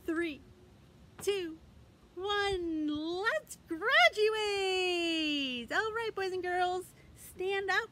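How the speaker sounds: high, loud puppet voice; squeaky excited puppet for kids; Milo puppet voice. Pretend. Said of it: "Milo is here, and he has something he wants to tell you".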